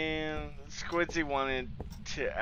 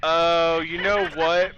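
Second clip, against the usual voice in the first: busted, cracking voice; 5 semitones higher, 8 dB louder, slower than usual. Real, not acted. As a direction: push through a cracked voice. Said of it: "My voice is busted".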